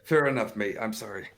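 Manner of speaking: put-on Scottish accent, playful apology. Co-host jokingly giving in to his friend, Scottish accent. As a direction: play a Scot conceding with an apology. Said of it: "That's a pretty good Scottish accent".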